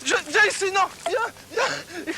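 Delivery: out of breath, calling the lamb; panting call while chasing; while running. Real, not acted. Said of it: "Je suis en train de courir derrière l'agneau".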